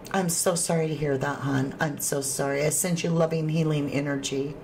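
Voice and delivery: soft, low condolences; tender sympathy. Real, not acted. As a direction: console gently, dropping low and quiet. Consoles viewer over brother's death.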